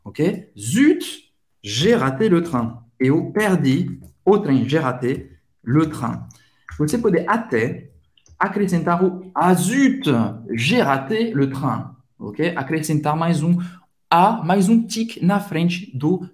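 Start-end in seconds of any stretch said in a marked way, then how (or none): 0.6-2.8 frustrated. Shown as a demonstration. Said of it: "expressar uma frustração". 9.4-11.9 mild vexation over a missed train; frustrated. Shown as a demonstration. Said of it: "expressar uma frustração".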